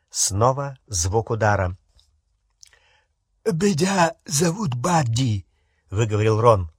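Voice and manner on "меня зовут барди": thick, slurred through blood; mouth full of blood. Acted. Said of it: "у него полон рот крови".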